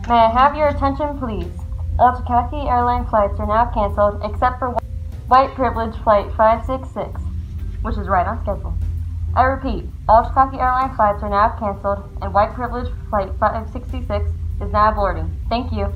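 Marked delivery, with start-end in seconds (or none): 0.1-1.5 over the intercom. Acted. Airport announcement, louder. 2.0-8.7 over the intercom. Acted. Airport announcement over speakers. 10.1-15.3 over the intercom. Acted. Repeated airport announcement.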